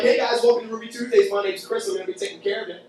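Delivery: a touch of a cheery salesman; lightly put-on server greeting. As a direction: greet the table like a chain waiter. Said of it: "this is my salesman voice".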